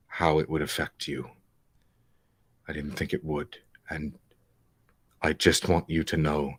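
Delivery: low, halting apology; sincere remorseful character. Acted. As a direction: apologise gently, with heavy pauses.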